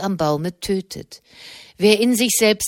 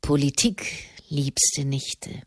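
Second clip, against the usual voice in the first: evasive; 4 semitones lower, 5 dB quieter, slower than usual. A narrator's reading. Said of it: "wich der Papst aus".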